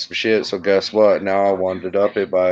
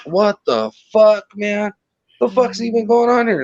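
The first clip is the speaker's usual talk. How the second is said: retold disbelief; 10 semitones higher than usual. Caller retelling his shock at Ash being berated, in high-pitched disbelief. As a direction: replay your baffled reaction, pitched well up.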